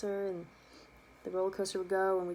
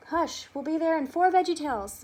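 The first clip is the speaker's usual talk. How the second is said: high, loud, hushing mom voice; impatient mom shushing the back seat; mom hushing the kids; 8 semitones higher, 8 dB louder than usual. Retold or imitated. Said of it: "my mom was like".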